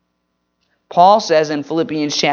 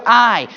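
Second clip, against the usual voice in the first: I said as its own word, a touch louder; stress on I; 4 semitones higher, 3 dB louder than usual. Shown as a demonstration. Pastor teaching the verse, stressing "I". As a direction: lean into "I" alone. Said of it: "put emphasis on some of those different words".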